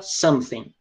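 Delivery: "something" said the American way; American pronunciation. Shown as a demonstration. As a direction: pronounce "something" as Americans generally do. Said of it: "geralmente o americano fala". ("something" com pronúncia americana)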